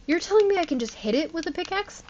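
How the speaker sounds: rushed incredulous question; disbelief. Real, not acted. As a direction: blurt it out in shock. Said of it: "Are you kidding me right now?".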